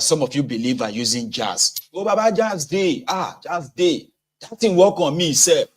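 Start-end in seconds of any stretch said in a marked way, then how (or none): 1.9-5.6 mock awed believer.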